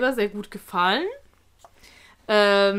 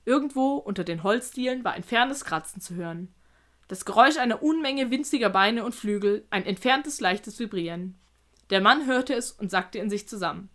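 measured read-aloud narration; careful storyteller's reading; story narration. A narrator's reading. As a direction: tell it evenly, like an audiobook.

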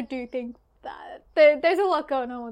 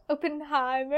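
mimicking a friend's Germanised "Oppenheimer"; imitated German accent. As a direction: echo "Oppenheimer" with a mock-German rounded O. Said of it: "I threw in the German accent".

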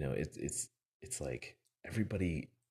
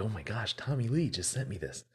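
higher-pitched retold astonishment; mock freaking out; 5 semitones higher than usual. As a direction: lightly imitate someone starstruck and freaking out. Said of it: "freaking out".

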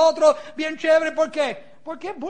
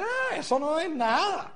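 slow, softer, drawn-out brush-off; dismissive; 6 dB quieter, slower than usual. Retold or imitated. Speaker imitates someone brushing off storm news, dismissive. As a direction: wave it away lazily.

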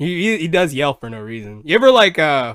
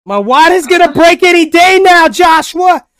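much higher and louder hammed-up cry; mock pregnant wife; 14 semitones higher, 7 dB louder than usual. Teasing Amber about birth pains, hammed-up mock wail. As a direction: overplay the panicked mother-to-be.

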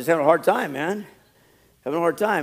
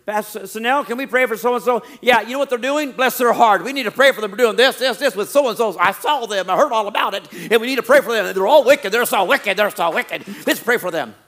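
sugary churchy busybody, a touch louder; pious gossip; 4 semitones higher, 4 dB louder than usual. Acted. Church member at prayer meeting feigning concern, sugary pious voice. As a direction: fake concern while spreading gossip. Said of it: "They'll say it in a prayer meeting".

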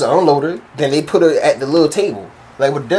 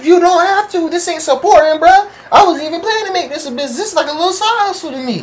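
high-pitched, insistent protest; acted-out high-pitched rebuttal; indignant comeback; 12 semitones higher than usual. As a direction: push back in a high, worked-up voice.

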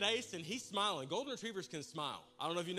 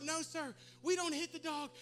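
high, raised-voice reprimand; parental scolding; 8 semitones higher, 4 dB louder than usual. Retold or imitated. Dad tells young son not to hit dog, scolding. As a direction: correct the child firmly and loudly.

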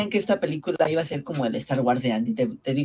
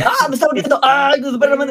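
high panicked yelling, much louder; screaming in pain at a bite; meme scream; 11 semitones higher, 7 dB louder than usual. Retold or imitated. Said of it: "Me recordaste al meme de".

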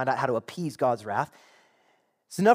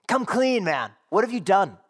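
confronting demand; 2 semitones higher, 3 dB louder than usual. Acted. Sailors to Jonah over the storm, confronting. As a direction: demand a confession.

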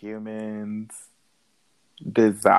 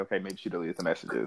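quiet musing; 2 semitones lower, 8 dB quieter, faster than usual. Retold or imitated. Imagined reaction to seeing messages.

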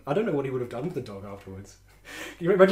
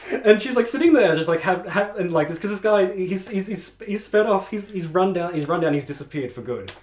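higher, louder, words pushed through laughter; laughing through it; 7 semitones higher, 5 dB louder than usual. Real, not acted. Teller recounts the theft to friends, still laughing. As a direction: tell it while barely holding the laugh in.

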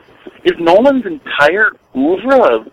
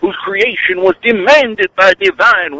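hint of a radio preacher; lightly voiced preacher sermon; Reverend Wolfman. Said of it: "This is the Reverend Wolf Man".

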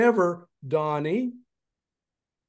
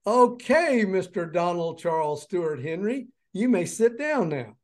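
teacher voice; 4 semitones higher than usual. Retold or imitated. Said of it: "so she said".

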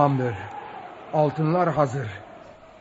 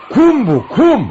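louder, higher, exasperated; loud insistence; 6 semitones higher, 9 dB louder, much slower than usual. Acted. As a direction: hammer home that it's just sand. Insisting it is only sand.

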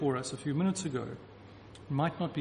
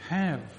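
single word "Have", falling and firm; stressed have. Shown as a demonstration. Preacher isolating the verb for the congregation, firm stress. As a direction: land "Have" alone with weight. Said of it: "The verb is to hold".

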